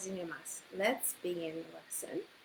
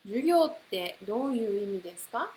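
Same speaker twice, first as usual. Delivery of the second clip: 授業ってどういう意味ですか rushed very fast; very fast model question; 4 dB louder, much faster than usual. Shown as a demonstration. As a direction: fire it off at top speed. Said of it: "you can put any word".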